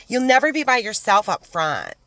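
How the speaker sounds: hammed-up bubbly coworker imitation; mocking office manager. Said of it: "That's how she talked".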